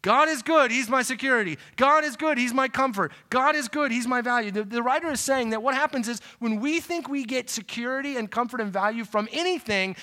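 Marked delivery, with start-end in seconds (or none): 0.0-4.5 louder and higher on each God is good; repeated with more force. Shown as a demonstration. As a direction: proclaim it again, building conviction.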